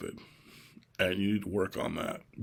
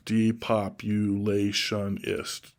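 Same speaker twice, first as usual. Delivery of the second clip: Depopulationist stretched out slowly, syllable by syllable; much slower than usual. Shown as a demonstration. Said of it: "Six syllables".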